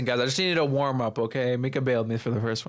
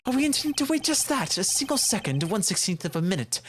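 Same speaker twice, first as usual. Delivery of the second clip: lightly put-on pompous witness; lightly voiced scolding witness; 6 semitones higher than usual. Witness reproving the lawyer for a misleading request, mildly pompous. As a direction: chide with a touch of grandiloquence.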